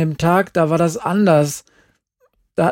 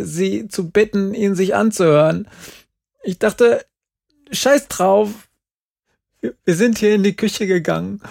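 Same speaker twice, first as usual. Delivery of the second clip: agitated retelling; 4 semitones higher than usual. Acted. Jerry tells her story, upset.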